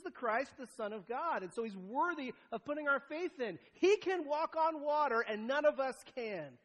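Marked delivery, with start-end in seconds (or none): 3.7-5.2 slow and loud, stress on He; slow, loud preacher emphasis; emphatic proclamation. Acted. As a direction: declare He with full weight. Emphatic claim about Jesus.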